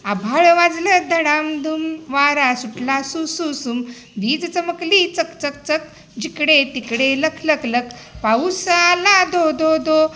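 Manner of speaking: put-on slow, rhythmic reading of a children's poem; poem recitation. Shown as a demonstration. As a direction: recite it for little kids, sounds drawn out. (मुलांसाठी तालात कविता वाचन)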